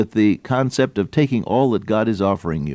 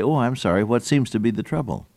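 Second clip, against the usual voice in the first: caring concern; 2 semitones higher than usual. Shown as a demonstration. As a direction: stop and really ask what's wrong. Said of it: "But if you stop, turn on your heel".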